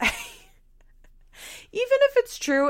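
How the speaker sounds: whisper. Real, not acted. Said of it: "aside about a harsh remark".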